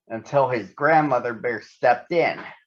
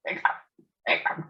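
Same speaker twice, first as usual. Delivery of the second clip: spoken hiccups; 5 dB quieter, faster than usual. Acted. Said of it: "He waited, then".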